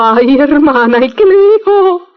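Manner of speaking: a nervous priest dreading what comes next; trembling. A narrator's reading. Priest to nun, afraid his sin is revealed, trembling. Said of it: "todo temblando".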